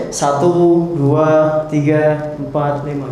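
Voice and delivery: low, lifeless count; listless counting. Shown as a demonstration. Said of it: "Jangan gini ngitungnya".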